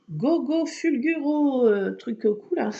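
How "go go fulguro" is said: mock superhero cry.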